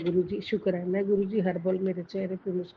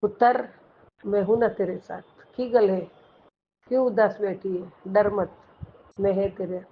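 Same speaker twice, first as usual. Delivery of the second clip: louder, comforting fatherly call; Guru's voice; 4 dB louder than usual. Retold or imitated. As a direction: reassure the worried daughter firmly. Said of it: "आपके एक sentence से".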